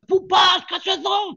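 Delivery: high, loud call after someone leaving; shouting after him. Retold or imitated. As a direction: yell to stop him walking away. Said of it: "του φώναζε". (φωνάζει δυνατά και ψηλά να τον σταματήσει)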